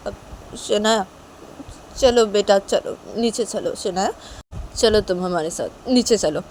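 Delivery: mildly tearful mother, coaxing; speaking through tears. Acted. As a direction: urge her along while holding back sobs. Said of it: "mummy से रोते रोते बोलते".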